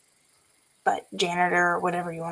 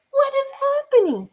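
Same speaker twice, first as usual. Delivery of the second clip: much higher, laughing bewilderment; amused disbelief. Retold or imitated. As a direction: laugh through the confusion. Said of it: "we're like".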